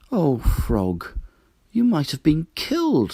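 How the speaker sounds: a touch of alarm; worried. Acted. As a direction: fret over him tenderly. Duck frightened for Frog.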